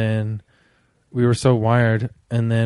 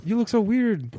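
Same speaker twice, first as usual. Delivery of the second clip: mock creeped-out voice; 9 semitones higher than usual. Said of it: "acted reaction to faces".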